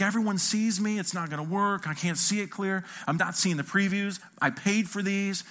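acted self-conscious complaining; fretting. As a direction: list your grievances in a fretful rise. Retold fretting while freaking out.

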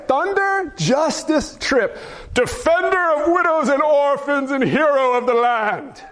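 a touch of epic herald; grand hero announcement. Acted. Proclaiming a superhero name grandly.

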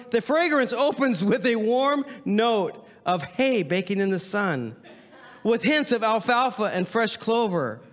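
high, slow mock perfume-ad voice; theatrical ad read. Pastor reading a horse cologne description to his congregation, mock-grand ad read. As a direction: savor it like a luxury fragrance copywriter.

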